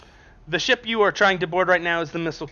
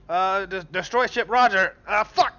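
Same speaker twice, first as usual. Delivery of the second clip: Scottish pilot; 5 semitones higher than usual. Acted. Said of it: "he's not Scottish, he's British".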